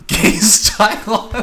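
high, slow, drawn-out gay style; high falsetto. Acted. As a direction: stretch it out in a squeaky high voice.

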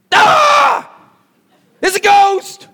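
high, loud shriek of fright; panicked high-pitched yell; terrified scream. Acted. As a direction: scream as if you've seen a ghost. Acting terrified disciples in the storm.

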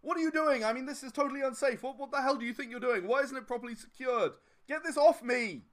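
high, indignant ranting at the owner; yelling indignantly. Acted. Pinned customer yells at the store owner, indignant high rant. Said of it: "he's yelling at the store owner".

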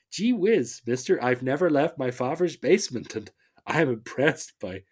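put-on eager gee-whiz kid, loud; starry-eyed innocent nerd from the fifties; wholesome 1950s kid. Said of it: "nineteen fifties".

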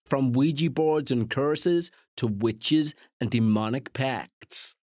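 slow, grave American trailer narration; bad American accent. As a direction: add gravitas with a put-on American accent. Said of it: "it adds a bit of gravitas".

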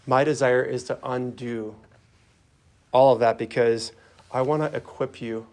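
understated, caring voice of Jesus; gentle. Acted. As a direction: tenderly offer help, phrase by phrase. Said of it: "he's just gonna say to you gently".

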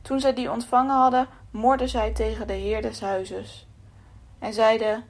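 measured, solemn Bible reading; a preacher reading Matthew aloud, solemn; scripture reading. A narrator's reading. Reads scripture passage.

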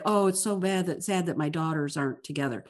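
a light sarcastic echo of her sighing; mock mom lament. Host mocks the mother's hollow regret, soft mock sigh. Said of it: "she's like".

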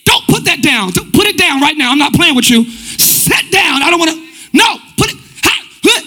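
lightly acted stern parent; scolding parent. Parent correcting a young child, mildly acted scolding. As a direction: correct a small child in short, firm commands. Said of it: "the first thing you might hear is correction".

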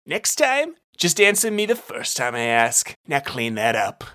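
lightly voiced bossy detective; scolding detective. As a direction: put him in his place. Brunt scolds the bartender.

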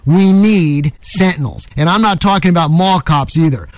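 emphatic, deliberate oratory; rally the listeners with a stump-speech cadence; radio editorial. Acted. Host warning listeners the country is in danger, rousing editorial. Delivers his opinion piece on air.

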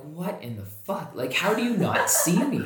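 incredulous laughing complaint; laughing disbelief. Retold or imitated. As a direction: laugh through the outrage. Retold disbelief as car passes.

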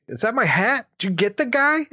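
put-on high, eager kid questions; excited kid. Kid asking Batman about his hat, excited. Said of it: "the kid's like".

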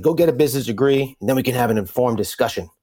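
lightly imitated gruff smoker's voice; a hint of a raspy old father; smoker's rasp. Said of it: "I can channel his kinda smoker's, uh, voice".

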